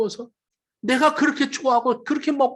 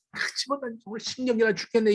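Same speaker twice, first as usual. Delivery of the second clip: put-on grumbling child; 4 dB quieter, faster than usual. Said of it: "이러면서 들어".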